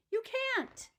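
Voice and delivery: stern teacher. Acted. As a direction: shut her idea down.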